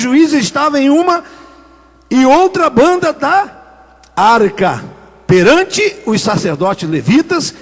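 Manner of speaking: slow, measured Bible reading; scripture reading. Acted. Preacher reads Joshua's verse to the congregation, slow and solemn. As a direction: read each phrase of the verse slowly and deliberately.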